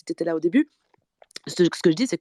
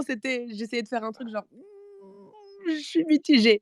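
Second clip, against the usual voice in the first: cracked voice straining higher; hoarse voice; 7 semitones higher than usual. Real, not acted. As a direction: push a worn-out voice for effect. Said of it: "comme j'ai la voix cassée".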